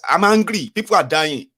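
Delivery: loud, high outburst of mock outrage; hammed-up angry protest; acted anger. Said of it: "President is angry".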